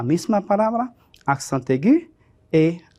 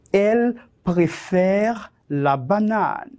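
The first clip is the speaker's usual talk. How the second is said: dictation; 3 semitones higher than usual. Shown as a demonstration. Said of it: "te voy a dictar cinco oraciones cortas".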